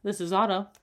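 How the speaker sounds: imitating a businesslike phone greeting; put-on professional phone voice; business phone voice. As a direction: answer like a work call, teasingly. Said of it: "talk on the phone with business".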